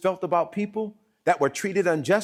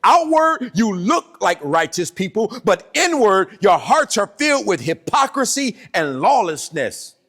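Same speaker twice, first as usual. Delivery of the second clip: slow, loud, preached; thundering rebuke; 3 semitones higher, 3 dB louder, slower than usual. Acted. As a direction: hammer out the charge. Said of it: "He said".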